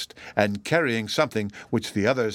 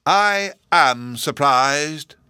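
feigned surprise; 5 semitones higher, 6 dB louder, much slower than usual. A narrator's reading.

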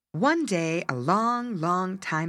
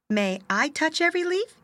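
eager North Wind; 10 semitones higher than usual. Acted. North Wind asking father.

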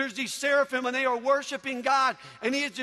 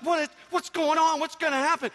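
higher-pitched, eager questioning; retold excited anticipation; 5 semitones higher than usual. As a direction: play a kid bursting with suspense. Retold child's excitement at concert.

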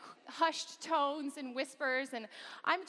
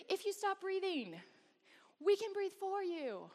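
higher, slow mock doctor voice; doctor's calm reply; 8 semitones higher than usual. Doctor leaning over the patient, slow and matter-of-fact. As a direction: reassure her matter-of-factly, slowly. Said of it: "leans over me and he says".

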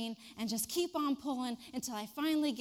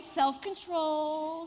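slow deliberate self-control; calm yourself, word by word; self-control mantra; 3 semitones higher, 7 dB louder, much slower than usual. Real, not acted. Teacher reins herself in, slow and deliberate. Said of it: "But I refrained".

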